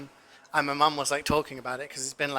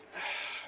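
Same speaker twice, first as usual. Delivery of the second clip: mock weary exhale, voiceless; exasperated sigh; 13 dB quieter than usual. Customer reacting to the long wait, exasperated sigh. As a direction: let out a resigned sigh. Acted reaction to a huge order.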